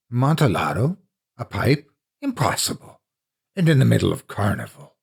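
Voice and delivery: a hint of an excited drunk who can't believe the news; drunk friend in disbelief. Drunk friend hears of rare wine.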